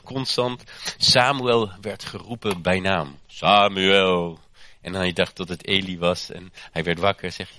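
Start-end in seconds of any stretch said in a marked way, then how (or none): 3.3-4.4 a loud calling out of the name; a voice calling a name in the night. Retold or imitated. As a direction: call him from afar, drawn out. God calling Samuel by name.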